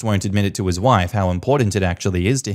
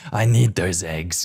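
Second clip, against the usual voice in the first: lower, slow greedy voice; creepy low demand; 4 semitones lower than usual. Acted. Mum demanding eggs, low and slow. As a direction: drag it out low like a creepy crone.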